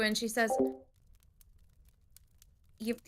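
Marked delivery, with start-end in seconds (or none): 2.8-3.0 lightly voiced, incredulous barkeep; halting disbelief as the tavern keeper; tavern keeper Dora's voice.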